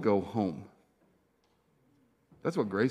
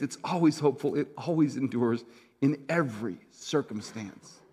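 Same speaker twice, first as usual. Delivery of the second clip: measured public reading of scripture, rising in pitch then settling; emphatic, deliberate Bible reading; 2 semitones higher than usual. Real, not acted. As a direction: read it as a preacher, building emphasis through the list and softening at the end. I'm gonna read you this passage.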